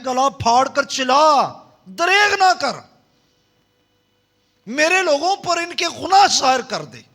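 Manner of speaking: preacher calling out the command to his congregation; preaching. Real, not acted. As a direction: cry the verse out like a trumpet. Preacher proclaiming the verse.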